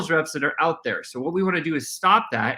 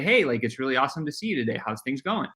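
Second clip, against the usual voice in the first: quick, easy, friendly hello; real, relaxed greeting; faster than usual. Shown as a demonstration. Sales coach models a natural greeting: easy, casual. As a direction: sound like a real person. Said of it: "Rather say".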